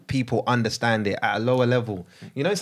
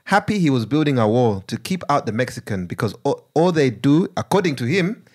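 put-on Ugandan accent. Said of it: "I'm gonna read it in Ugandan accent".

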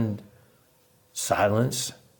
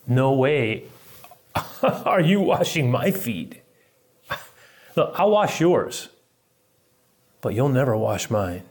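emphatic, slowed protest as Peter; mildly hammed-up insistence; emphatic refusal; 3 semitones higher than usual. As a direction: act out an adamant refusal, drawing words out. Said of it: "emphatic, classic Peter".

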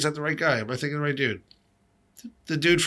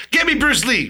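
movie villain quote; 9 semitones higher than usual. Retold or imitated. Retelling a movie line.

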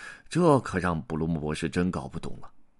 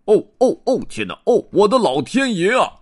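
high, loud cry of dismay; distressed bear shout; 13 semitones higher, 8 dB louder than usual. Acted. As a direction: wail at the broken telly. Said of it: "布鲁姆博士喊道". (惊慌的大熊高声大叫)

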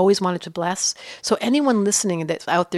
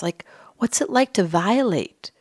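whisper. Acted. Pondering the perpetrator's mind.

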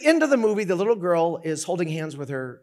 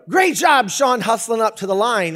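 loud, higher mock praise; encouraging coach shout, acted; words of affirmation; 4 semitones higher, 6 dB louder than usual. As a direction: imitate a coach cheering a player on. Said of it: "an aversion to words of affirmation".

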